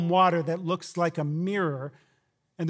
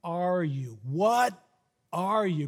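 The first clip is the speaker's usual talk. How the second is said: awed fear; much slower than usual. Retold or imitated. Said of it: "and they say".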